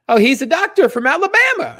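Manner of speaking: lightly mocking high girlfriend voice. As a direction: play her as airy and evasive. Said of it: "She's like".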